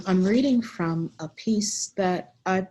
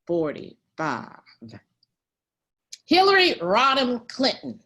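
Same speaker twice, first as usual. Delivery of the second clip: put-on animated elderly storyteller, swinging between hushed and emphatic; very old woman, Pearl. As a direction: reminisce as a spirited centenarian, with long pauses. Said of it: "a hundred and ten-year-old woman".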